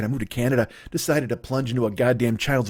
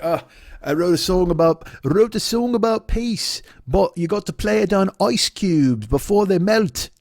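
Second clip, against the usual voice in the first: higher, slow, airy artiste voice; mocking pretentious artist; 5 semitones higher than usual. Mocking Sean's experimental music, slow lofty artiste voice. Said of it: "he's like".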